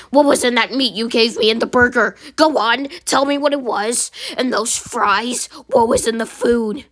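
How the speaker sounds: sick customer grills the employee; angry customer. Acted. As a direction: press him for answers.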